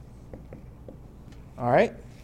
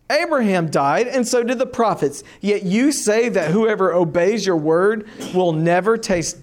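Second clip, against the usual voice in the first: pitched up, indignant challenging Jews; a reader voicing the accusing crowd, pitched higher; incredulous crowd; 4 semitones higher, 5 dB louder than usual. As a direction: hurl disbelieving questions at him, higher.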